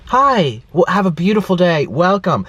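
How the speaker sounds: bright, eager worker greetings; cheery greeters. Retold or imitated. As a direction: greet like overly friendly staff. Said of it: "All the workers coming by".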